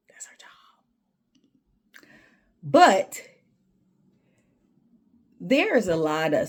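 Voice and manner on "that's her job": much softer, whispered jab; a hushed that's her job. Real, not acted. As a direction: drop to a whisper for emphasis. Pointed aside.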